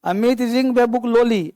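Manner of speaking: very slow, every word spaced apart; slow dictation. Shown as a demonstration. Teacher to students giving an example, dictated very slowly. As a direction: read it out slowly for copying. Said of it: "teacher dictating example again".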